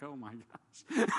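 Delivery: slow drawn-out oh my gosh; stunned disbelief. Retold or imitated. Realising he gave the caller his number, slow stunned disbelief. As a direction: let the realisation sink in slowly.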